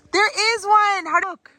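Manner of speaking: high, loud gasp of discovery; sudden delighted find; gasping surprise. Real, not acted. Spots a fruit on bare tree.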